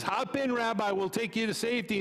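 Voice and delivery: eager neighbor. Acted. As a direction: shout the offer over the water. Police boat offers rescue.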